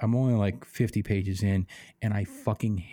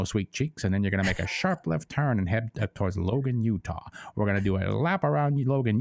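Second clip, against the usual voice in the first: smarmy pilot sweet-talking his plane; mock flirty patter, swooping on the stressed words. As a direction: lay on the hammed-up smooth talk. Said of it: "he's sweet talking it".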